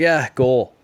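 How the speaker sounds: grudging, fed-up, loud and disgusted. Retelling how the others announced the disputed goal: imitating a disgusted tone.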